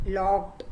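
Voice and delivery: "लॉक्ड" as one short syllable ending in a consonant cluster; silent letter demo. Shown as a demonstration. Teacher showing the class a hidden letter, "लॉक्ड" as one syllable. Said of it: "तो क नहीं आया".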